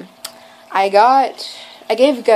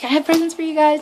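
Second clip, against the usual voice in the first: retold nervousness; 7 semitones higher than usual. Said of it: "I was nervous".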